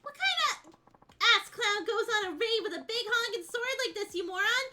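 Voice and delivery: loud mocking scorn at a moron; brash insulting tough guy. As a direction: jeer at a fool with a big sword. Voicing brash character dialogue.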